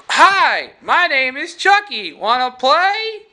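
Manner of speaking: high, loud talking-doll voice; Chucky. Retold or imitated. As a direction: chirp the catchphrase like a toy doll. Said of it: "and he goes".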